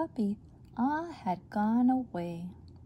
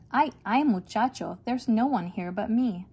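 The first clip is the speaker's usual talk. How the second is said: exasperated cry; 2 semitones higher, 4 dB louder than usual. Acted. Mother calling for her missing boys, exasperated and loud. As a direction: throw up your hands at the naughty boys.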